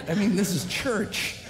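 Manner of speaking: laughing through the words; amused, with a laugh. Retold or imitated. Retelling own protest to Dan.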